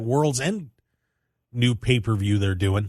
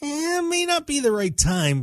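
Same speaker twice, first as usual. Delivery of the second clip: Tony. Retold or imitated. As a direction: lightly voice a hesitant brush-off. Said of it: "Tony said".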